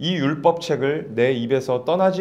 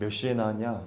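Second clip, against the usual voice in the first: put-on dignified, composed voice, lower and quieter; 5 semitones lower, 9 dB quieter than usual. Preacher acting out a man questioning a servant: mock-dignified, composed voice. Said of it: "점잖은 목소리로".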